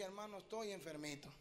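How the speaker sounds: small, soft retold voice of a patient; meek sick complaint. Sick pastor confessing to a visiting brother, meek. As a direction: softly admit being poorly.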